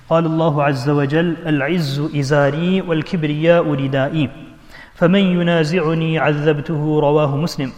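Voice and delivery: measured Arabic scholarly recitation; hadith recitation. Real, not acted. Preacher reads a hadith to the congregation, formally recited. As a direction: recite the hadith in a sustained, even flow.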